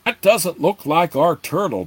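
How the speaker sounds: consternation. A narrator's reading. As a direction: voice rising with dismay at the shape below. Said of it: "with consternation in his voice".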